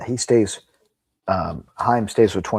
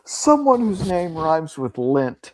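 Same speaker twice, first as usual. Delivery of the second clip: high, loud, laughing tease; real laughter pushing the voice up high; teasing through laughter; 7 semitones higher, 6 dB louder than usual. Real, not acted. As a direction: break the bad news while cracking up. Teasing Clint about the trip, laughing.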